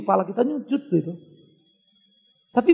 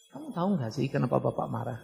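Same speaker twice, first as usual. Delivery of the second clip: softer, low and calm, volume turned down; calm quiet version; 5 semitones lower, 7 dB quieter than usual. Shown as a demonstration. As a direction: ask it gently, voice held down. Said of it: "turunkan volumenya".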